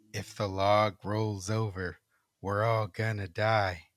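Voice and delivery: slow, low eerie chant. Acted. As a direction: drone it out slowly like a ghost. Ghostly voice repeats.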